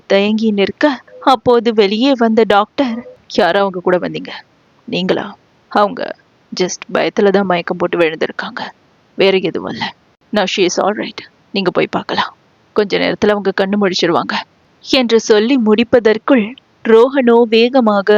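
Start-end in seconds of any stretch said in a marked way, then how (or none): 3.3-4.3 a hint of a doctor asking; lightly voiced doctor. Doctor speaks. 4.9-14.4 lightly lower, brisk doctor's update; a hint of a calm doctor; lightly voiced doctor; reassuring doctor.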